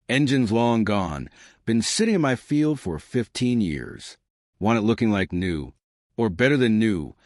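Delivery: put-on light Texas accent, easy and unhurried; old vet with a slight Texas drawl. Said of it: "that slight Texas drawl".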